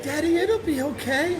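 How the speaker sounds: put-on a small child's soft reassurance; gentle hint of a baby's voice; little child voice. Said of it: "the same little nine-month-old said".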